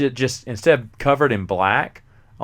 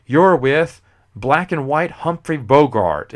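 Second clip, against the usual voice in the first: police captain; 3 semitones higher, 6 dB louder, slower than usual. Retold or imitated. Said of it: "he's like".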